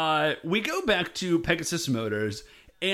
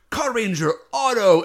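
loud, raised hero call; mock attack call; 4 semitones higher, 5 dB louder than usual. Minoru pulls out his weapon, mock heroic call. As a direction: announce the weapon like a cartoon hero.

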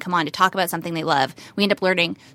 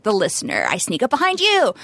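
mock creepy killer; 4 semitones higher than usual. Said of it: "And it's like".

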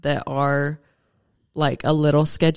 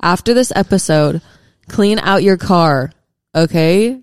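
mock PSA. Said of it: "this is a public service announcement".

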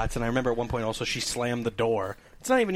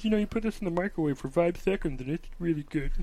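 put-on young kid; 3 semitones higher than usual. Kid bagger advising a customer, in young kid voice. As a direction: imitate a kid sharing a tip. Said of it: "some young kid comes back".

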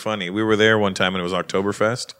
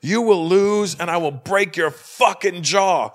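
retold threat; 5 semitones higher, slower than usual. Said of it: "I'm yelling down at him".

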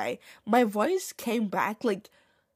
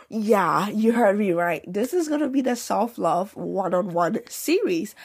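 louder, proud reveal; emphatic announcement; 5 dB louder than usual. Real, not acted. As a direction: sell the big news. Announcing a new series.

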